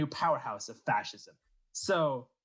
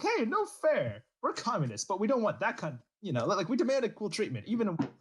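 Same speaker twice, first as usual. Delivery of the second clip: whiny protest; 6 semitones higher than usual. Retold or imitated. Republicans complaining, voiced.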